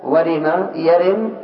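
ورم يرم spoken slowly, syllable by syllable; slow it down so students copy; teacher dictating slowly; slow dictation. Shown as a demonstration. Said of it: "يعني أصلها يورم".

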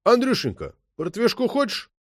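sweetly tempting the suspect with a drink; sly coaxing. A narrator's reading. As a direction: coax him like a sly host. Boatswain coaxing the detainee.

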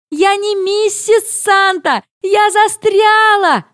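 high, slow desperate squeal; shrieking. Retold or imitated. Shrieking to the family that she isn't Mrs Santa. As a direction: insist in a high wail. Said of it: "верещу я".

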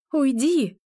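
sharp high-pitched order; emphatic narrated command. A narrator's reading. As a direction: order the phantom away, pitch jumping up. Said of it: "приказала я".

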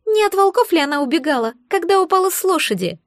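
mock her with a smug little jab; snide egg creature.

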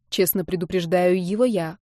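ordinary delivery

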